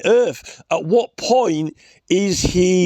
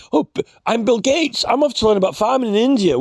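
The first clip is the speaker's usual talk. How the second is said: mock Bill Gates; 6 semitones higher than usual. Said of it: "This is like Bill Gates".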